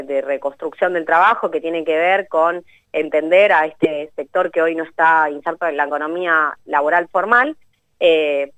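stuffy, nasal cold voice. Real, not acted. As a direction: speak through a head cold. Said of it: "estoy resfriada y me está costando bastante".

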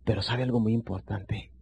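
staring the prospect down, say it low and slow; quiet and serious. Shown as a demonstration. Salesman holding the prospect's gaze, hushed and slow. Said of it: "cuando te la quedas viendo y le dices".

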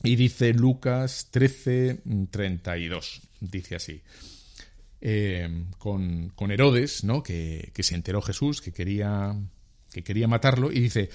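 ordinary talk

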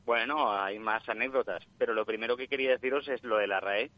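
voz de llamada telefónica; por teléfono. Real, not acted. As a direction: suena a través del teléfono. Llamada en directo al programa. (voz de oyente por teléfono)

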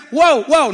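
two short mock barks; little dog bark. Preacher mimicking one little dog, small mock barks. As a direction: imitate a small dog's yapping. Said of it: "cuando se te para un perrito y te hace".

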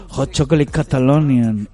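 slow, deliberate hot chocolate Catalonian; slowed, overclear hot chocolate Catalonian; slow modulated. Retold or imitated. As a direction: draw out each word for the tourist. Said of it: "se lo hacía con modulación".

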